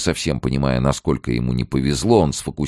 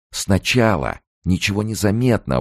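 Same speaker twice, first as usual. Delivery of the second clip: triumphant; 7 semitones higher than usual. A narrator's reading. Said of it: "возгласил Керн с явным триумфом".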